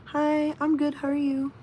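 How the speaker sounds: cheerful hi; upbeat greeting. Real, not acted. Answering upbeat.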